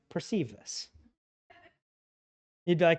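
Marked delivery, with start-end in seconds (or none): 0.1-0.9 mock formal command.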